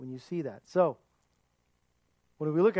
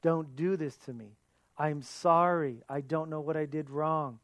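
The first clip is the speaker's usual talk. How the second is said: begging. Acted. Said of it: "And he begged his brothers".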